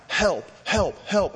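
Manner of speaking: half-hearted imitated yelling; retold yell for help. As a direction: call out help as if grabbed by a seal. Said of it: "just to start yelling, crying out".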